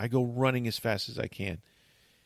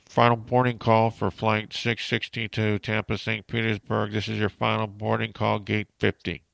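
airport boarding announcement. Retold or imitated. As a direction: read it like a terminal PA call. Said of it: "I hear".

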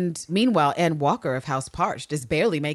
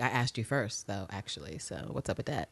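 quiet; 8 semitones lower, 10 dB quieter than usual. Retold or imitated. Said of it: "she's like".

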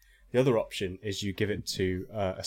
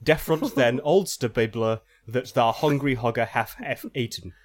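phonetic mock-archaic reading. Shown as a demonstration. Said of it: "in this kind of weird phonetic".

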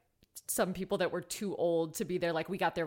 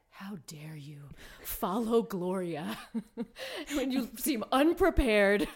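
laughing indignation; slower than usual. Retold or imitated. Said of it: "I was like".

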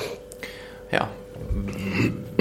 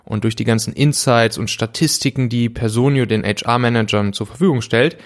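ad read. Acted. Host reads sponsor ad.

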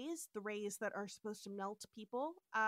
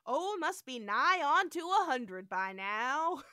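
slow hammed drawl; drawled original; 3 semitones higher, 7 dB louder, slower than usual. First telling of the line, slow drawl. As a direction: drag the words out lazily. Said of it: "he says".

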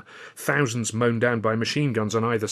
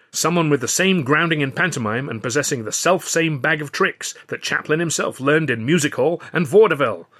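louder, higher producer's address to the crew; Burstein's speech; 4 semitones higher, 5 dB louder than usual. Acted. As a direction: pitch the new series to the room like a showman. Burstein continues his speech.

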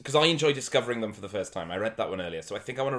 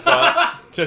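high mock voice; 14 dB louder than usual.

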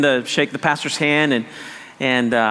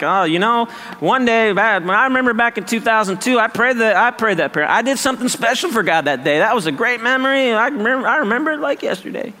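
nostalgic boasting; 5 semitones higher than usual. Retold or imitated. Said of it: "No, it's not a one-time decision".

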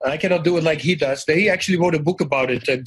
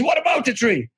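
retold scream; 8 semitones higher than usual. Teacher questioning a pupil lost in a daydream, mock scream. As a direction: imitate an irritated teacher, voice pitched up. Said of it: "And then he's screaming".

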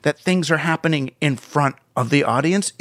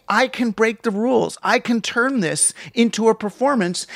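imitating Trump; 5 semitones higher than usual. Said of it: "He's saying".

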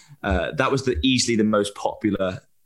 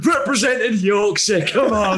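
excited; 9 semitones higher, 4 dB louder than usual. Real, not acted. Cheering friend's top rating.

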